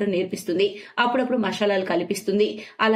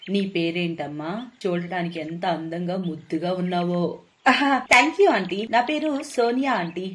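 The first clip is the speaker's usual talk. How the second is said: put-on sly old witch. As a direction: coax her slowly like a scheming sorceress. Witch Malini speaks to Sonia.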